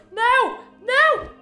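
high panicked shout; yelling no in fright; scared scream. Real, not acted. Accidentally turned radio on.

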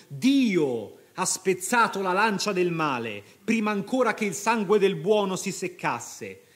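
triumphant cry. Acted. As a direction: proclaim the victory.

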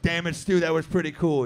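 loud grudging praise. Retold or imitated. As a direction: girlfriend caught out yet impressed, loudly. Girlfriend impressed by trick.

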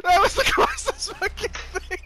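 panicking gamer. Real, not acted. Raging over near win.

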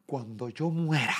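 slow, drawn-out mock lament; imitating dramatic mom. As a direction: stretch it out like a melodramatic mother. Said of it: "mi mamá bien dramática". (imitando el drama de mamá, lento)

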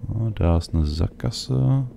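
ordinary talk, nothing marked

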